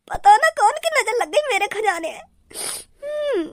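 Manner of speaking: slow, tearful wail over lost treasure; mourning the treasure with a crying sigh; crying boss. Acted. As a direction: sob it out like a ruined villain.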